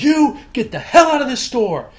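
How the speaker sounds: high, loud mock shout; ordering him out, a replayed outburst; retold angry order. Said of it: "that was when I lost my cool".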